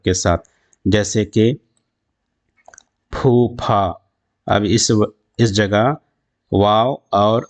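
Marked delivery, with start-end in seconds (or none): 3.1-3.9 پھو، پھا with h merged into the p; blended h. Shown as a demonstration. Teacher demonstrating the mixed haa, aspirated syllables. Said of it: "خلط ہوتے کسی نہ کسی حرف".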